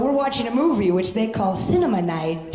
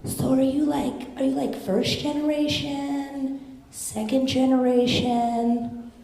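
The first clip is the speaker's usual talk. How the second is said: put-on quoting a curious girl; 4 semitones higher than usual. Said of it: "She's like".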